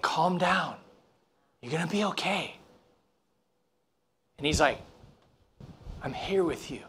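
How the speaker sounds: very soft, hushed reassurance; calming. Retold or imitated. Scuba instructor to a panicking student, calming. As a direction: quietly soothe someone who is panicking, imitating the instructor. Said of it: "he goes like this".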